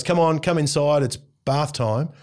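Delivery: put-on a light, coaxing dad voice calling the kids in; sweet and easy, the first gentle ask; friendly call. Shown as a demonstration. Dad calling the kids in for their bath, friendly and coaxing. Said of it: "That's a change in tone".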